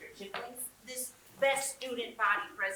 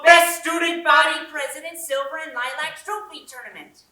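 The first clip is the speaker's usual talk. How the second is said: loud, higher, excited interruption; loud eager announcement; eager blurting; 4 semitones higher, 14 dB louder than usual. Acted. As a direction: blurt the whole title out over the speaker.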